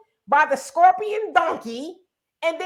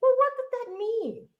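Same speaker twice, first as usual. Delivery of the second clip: mock questioning; 7 semitones higher, 4 dB quieter than usual. Imitating someone asking a question.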